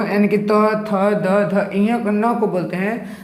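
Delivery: slow, careful letter by letter; teacher sounding out each letter for the class. Shown as a demonstration. Hindi teacher slowly sounding out the consonants. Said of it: "जब हम इसको बोलते हैं".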